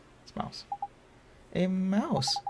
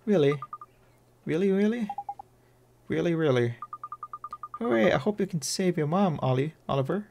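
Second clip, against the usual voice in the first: put-on lightly raised, playful fairy girl; bright little sprite, sweet and curious. High fairy voice for P.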